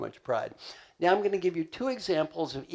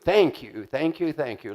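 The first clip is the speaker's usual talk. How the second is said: grateful thanks; 4 dB louder than usual. Shown as a demonstration. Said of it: "what should we say to this good person?".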